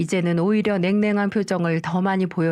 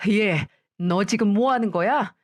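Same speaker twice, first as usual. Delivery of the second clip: angry demand; 2 semitones higher than usual. Acted. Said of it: "화가 머리끝까지 났죠".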